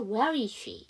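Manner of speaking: "Where is she" run together, falling at the end; linked pronunciation. Shown as a demonstration. Teacher repeats the model, linked "Where is she". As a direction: let "is" melt into "she". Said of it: "이렇게 해주시면 되겠죠".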